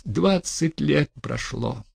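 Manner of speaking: bitter and fed up; bitter resignation. Acted. Bitter final outburst.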